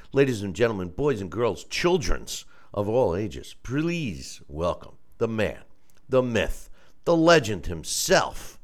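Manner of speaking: big ring announcer intro, drawn out; ringmaster. Pretend. Ring announcer style guest introduction.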